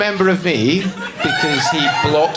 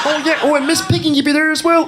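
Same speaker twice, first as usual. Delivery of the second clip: silly date voice; 9 semitones higher, faster than usual. Retold or imitated. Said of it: "I'll do stupid voices".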